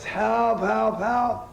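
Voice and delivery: high, loud, panicked cry for help; old woman calling out for help to passers-by, high and loud; retold old woman yelling. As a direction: yell it like a frantic old lady on the street corner. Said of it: "and she yells".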